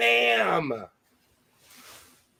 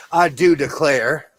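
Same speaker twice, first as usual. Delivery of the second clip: bad Southern accent; 4 dB louder than usual. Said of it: "See, my Southern accent's terrible".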